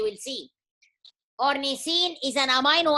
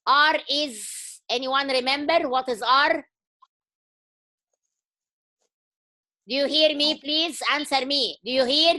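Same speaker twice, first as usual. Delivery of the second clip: dressing down. Real, not acted. Scolds silent students.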